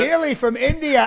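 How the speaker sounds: light up at the news; surprised. Acted. Comic as Trump hearing of Indian money, surprised.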